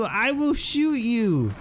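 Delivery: high, slow, drawn-out warning; slow high-pitched threat. Real, not acted. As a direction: spell out the threat slowly, voice up high. Threatening the attacking cow.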